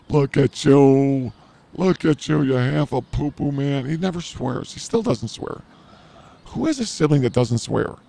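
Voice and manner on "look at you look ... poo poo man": laughing brother. Retold or imitated. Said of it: "My brother's laughing 'cause he's like".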